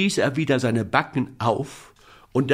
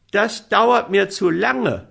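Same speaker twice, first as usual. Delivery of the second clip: put-on impatient boy; 8 semitones higher, 3 dB louder than usual. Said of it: "sagte Häwelmann".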